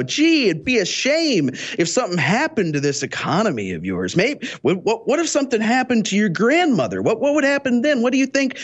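lightly acted mobster's veiled threat; Tony Soprano. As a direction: imitate a bully feigning concern, pitch swinging. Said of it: "acting like he's Tony Soprano".

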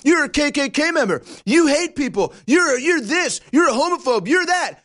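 high, sing-song string of mock accusations; mocking accusers. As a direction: parrot the name-calling with scorn.

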